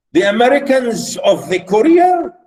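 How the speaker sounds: put-on scandalized old aunt asking loudly; haughty aunt. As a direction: sneer the question like a snobbish aunt. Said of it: "notice how she speaks to him".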